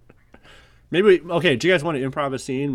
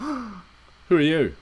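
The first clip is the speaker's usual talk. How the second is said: put-on higher, drawn-out mistaken Australian accent; botched accent switch; 6 semitones higher, much slower than usual. Spy challenges a stranger, accidentally in an Australian accent. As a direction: slip into the partner's Australian accent. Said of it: "I'm doing the accent now".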